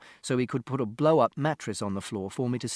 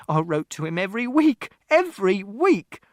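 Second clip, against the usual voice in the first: raised voice, climbing on the repeat; insistent shout; 8 semitones higher, 6 dB louder than usual. A narrator's reading. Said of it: "Mother shouted".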